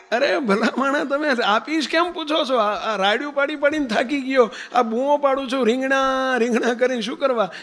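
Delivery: a tired hawker losing patience with a polite buyer; exasperated vendor. Retold or imitated.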